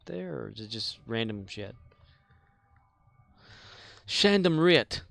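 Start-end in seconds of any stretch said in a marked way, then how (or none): 4.1-5.0 goofy voice. Pretend. Playful spoonerism of random shit.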